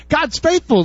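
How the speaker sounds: normal talking voice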